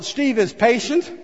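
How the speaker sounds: sheepish, as if caught out; sheepish self reading. Shown as a demonstration. Pastor trying the reading with his own name, sheepish. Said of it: "Here, I'm gonna try it".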